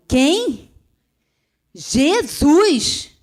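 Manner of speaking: Jesus cried out loud and high, with force; woman hearing the answer, crying Jesus with force; forceful Jesus. Retold or imitated. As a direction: shout the name Jesus with power. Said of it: "falei aquele Jesus com tanta força".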